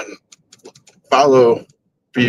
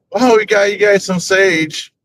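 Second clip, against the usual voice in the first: higher-pitched imitation of a friend; breezy, higher voice for a clueless friend; oblivious friend; 8 semitones higher than usual.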